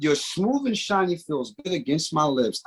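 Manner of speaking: slow sultry lyric line; dramatic reading. Acted. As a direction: savour each word seductively. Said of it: "give a dramatic reading".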